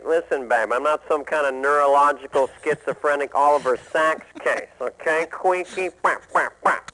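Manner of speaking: Dennis Miller. Retold or imitated. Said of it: "Like Dennis Miller would say".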